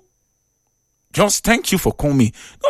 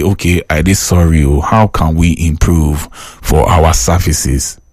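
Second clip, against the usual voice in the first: slow, humble apology; a slow, humble demo of saying sorry; apologetic; 8 semitones lower, slower than usual. Shown as a demonstration. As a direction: sound sorry and ready to improve. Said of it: "learn to say".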